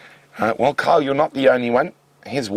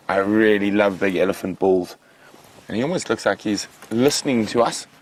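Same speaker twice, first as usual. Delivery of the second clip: ordinary talk, nothing marked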